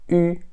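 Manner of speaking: "ü" as rounded "i"; Mandarin ü. Shown as a demonstration. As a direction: say "i" with pursed lips. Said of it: "só que com biquinho". ("ü" com biquinho)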